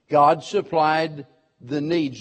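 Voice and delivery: slow, "needs" set firmly apart; stress on needs. Shown as a demonstration. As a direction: mark "needs" clearly, slowly. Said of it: "Notice I said needs".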